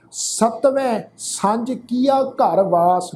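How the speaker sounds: slow, devout reading of the line; slow Gurbani line; scripture recitation. Shown as a demonstration. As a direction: recite the verse slowly and reverently. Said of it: "ਬਾਣੀ 'ਚੋਂ ਅਸੀਂ ਪੰਕਤੀ ਪੜ੍ਹਦੇ ਹਾਂ".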